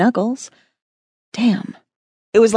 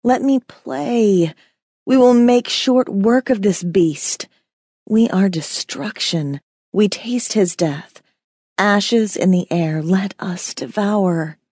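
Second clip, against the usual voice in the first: hungry inner demon; slower than usual. Acted. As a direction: savour each word like a predator. Inner demon pleads to be freed.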